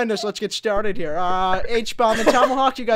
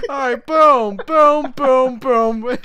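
excited; 4 semitones higher, 4 dB louder, much slower than usual. Acted. Cutting the ribbon.

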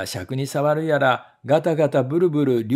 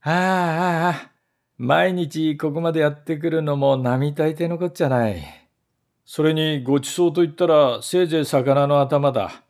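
weary, put-upon. Acted. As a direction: whine as if the trip were a great burden. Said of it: "さもさも大義らしく言いました".

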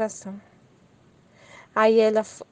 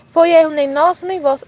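higher and much louder, rising on erro; emphatic re-reading; 5 semitones higher, 8 dB louder than usual. Shown as a demonstration. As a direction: repeat it with loud conviction. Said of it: "Tá vendo como que ele trata". (releitura enfática e bem mais alta)

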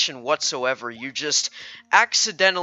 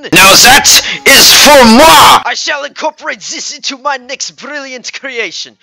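loud, high, grandiose mock French; shouted French accent; 9 semitones higher, 15 dB louder than usual. Artist hailing his next creation, shouted French accent. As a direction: proclaim it like a pompous French artist. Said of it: "I'm not French".

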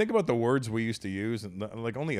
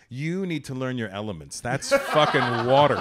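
laughing retort; 7 dB louder than usual. Retold or imitated. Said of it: "I go".

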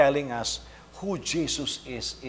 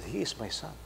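softer, heartfelt father; from the heart; 9 dB quieter than usual. Retold or imitated. A father standing by his son, softer and heartfelt. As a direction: say it quietly, from the heart. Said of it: "it's coming from his heart".

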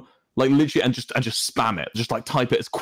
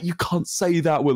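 mock outrage; 6 semitones higher than usual. Shown as a demonstration. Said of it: "and like".

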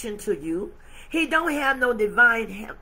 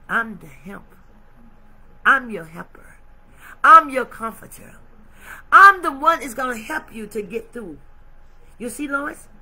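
God's voice swelling louder; God's rising declaration; 6 dB louder than usual. Acted. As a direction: build from calm to a ringing promise. God declaring himself helper.

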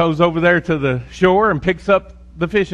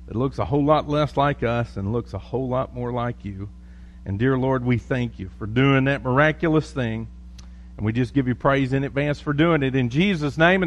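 pastoral prayer; 3 dB quieter than usual. Acted. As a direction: pray gently over the church. Leads the congregation in prayer.

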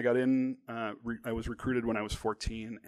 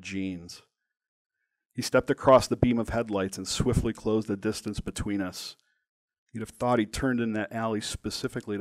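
measured, dramatic memoir reading; deliberate narration with weight on key words; story narration; 3 dB louder than usual. A narrator's reading. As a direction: read your story aloud, phrase by phrase. Reads own story aloud.

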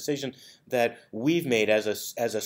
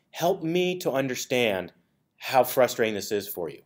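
calm sincere request. Shown as a demonstration. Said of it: "Because by saying".

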